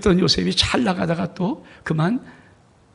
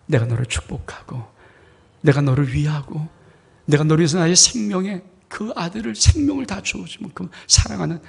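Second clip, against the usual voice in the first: tender voice of God; 2 semitones lower than usual. Acted. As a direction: speak like a loving father to a child. God speaking tenderly to child. (낮고 다정한 아버지 같은 하나님의 목소리)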